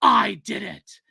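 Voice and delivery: whispered villain confession. Pretend. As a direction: breathe it like a gloating villain. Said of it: "with a villain voice".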